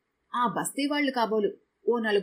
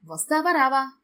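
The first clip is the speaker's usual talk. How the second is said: higher, louder ultimatum; firm loud demand; 4 semitones higher, 4 dB louder than usual. A narrator's reading. Husband pressing his hesitant wife, loud and firm. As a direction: push her to decide now. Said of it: "గట్టిగా అడిగాడు".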